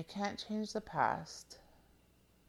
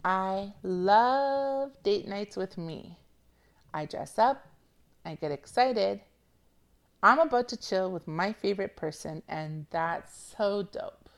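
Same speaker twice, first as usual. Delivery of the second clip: quote reading; 2 semitones higher, 4 dB louder than usual. Shown as a demonstration. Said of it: "I'm gonna hit you twice".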